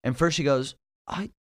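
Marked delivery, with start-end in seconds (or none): 1.1-1.3 high, soft, very slow British lady; airily calm in a mock British accent; imitated British landlady, drawn out and quiet; calm British landlord. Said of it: "She said it so calmly".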